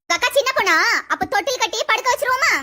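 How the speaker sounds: sarcastic ridicule. Acted. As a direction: scoff at a silly excuse. Mother-in-law ridicules "little girl" excuse.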